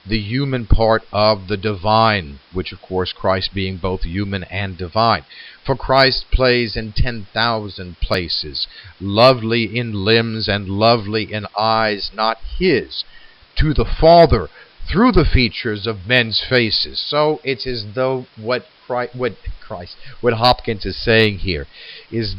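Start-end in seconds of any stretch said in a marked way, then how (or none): 5.6-17.0 poem reading. Acted. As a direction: read it like a poem, letting the lines breathe. Recites the sonnet's lines.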